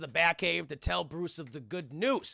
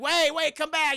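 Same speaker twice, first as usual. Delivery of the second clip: high, loud plea; raised, pleading shout; calling after him; 10 semitones higher, 6 dB louder than usual. Acted. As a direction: call urgently to someone walking off. Girl calls after boy leaving.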